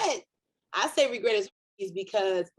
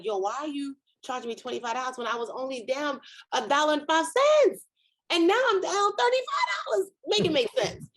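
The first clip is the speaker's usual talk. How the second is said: indignant rant; 5 semitones higher than usual. Retold or imitated. Ranting at bank over overdraft fee.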